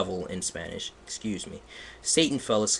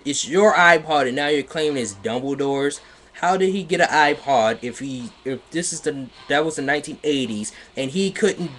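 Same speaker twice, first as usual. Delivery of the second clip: incredulous; 4 semitones higher, 4 dB louder than usual. Real, not acted. Incredulous commentary on plot.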